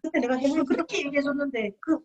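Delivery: smug told-you-so. Retold or imitated. Partner rubbing it in to the friend, smug told-you-so. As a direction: rub it in on the friend. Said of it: "민망을 주는 경우가 있어요".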